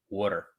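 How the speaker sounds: Water with a D in the middle, wɔ-der, Pennsylvania local style; Water, dropped-T local Pennsylvania way. Shown as a demonstration. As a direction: say Water the way the locals do, soft D instead of T. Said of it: "I'll just say it like we would say it around here".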